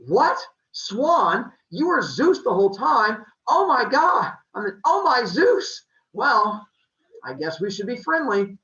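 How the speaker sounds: loud, high shocked outburst. Acted. Leto finding out the swan was Zeus, shocked and loud. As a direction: blurt it out in total disbelief.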